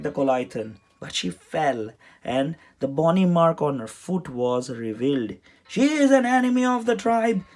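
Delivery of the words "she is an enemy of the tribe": high, loud, fast accusation; denouncing. A narrator's reading. Cleric denounces Trixie to the crowd, loud and fast. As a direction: whip up the crowd against her. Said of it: "the cleric told the crowd".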